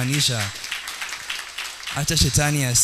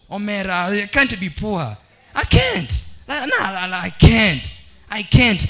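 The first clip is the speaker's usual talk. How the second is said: light mock Luo accent, higher; 6 semitones higher than usual. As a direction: say it like a Luo man, playful. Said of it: "kama Mjaluo".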